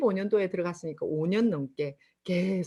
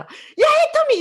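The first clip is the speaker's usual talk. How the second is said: much higher, louder harsh yell of her name; angry yell; 10 dB louder, slower than usual. Retold or imitated. Angry customer yelling her name down the phone, loud. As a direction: bark the name as an annoyed customer. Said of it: "이러는 거예요".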